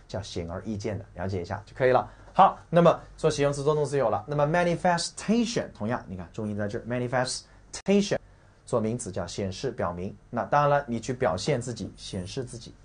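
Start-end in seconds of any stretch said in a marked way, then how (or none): 4.4-8.2 manifestation with its stressed syllable picked out; stress demonstration. Shown as a demonstration. Teacher pointing out the stress to students, emphatic "manifestation". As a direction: say "manifestation" to show where the accent sits.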